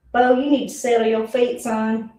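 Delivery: put-on sweet Southern accent, slightly lifted; gentle scolding in sugary Southern. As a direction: coax him in a sweet Southern voice. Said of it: "That's a little bit too sweet Southern".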